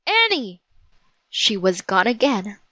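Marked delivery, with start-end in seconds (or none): 0.1-0.6 high, falling call. Acted. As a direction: call her name in acted alarm, without shouting. Jack calls out for missing Annie.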